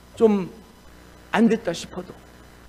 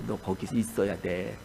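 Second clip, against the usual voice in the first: God's command; 7 semitones lower, 5 dB quieter than usual. Retold or imitated. God holds Jonah back.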